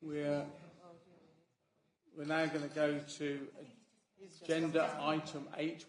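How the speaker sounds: stalling, drawn-out announcement with pauses; measured stalling for a latecomer; deliberately slow. Real, not acted. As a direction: spin the words out to buy time. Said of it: "I'm speaking very slowly".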